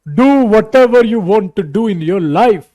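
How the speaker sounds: slow, loud, drawn-out imitation of an actor's English; mock filmy accent. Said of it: "ऐसा कोई accent मत पकड़ लेना". (धीमा, ऊँचा, ज़ोरदार फ़िल्मी अंदाज़ की नकल)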